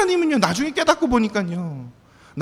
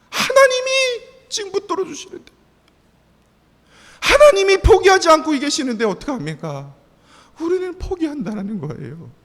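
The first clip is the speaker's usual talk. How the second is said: much higher, louder fervent preaching; preaching climax; 9 semitones higher, 4 dB louder than usual. Acted. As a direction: soar with fervent conviction. Preaching peak. (고조된 열정으로 외치듯 설교)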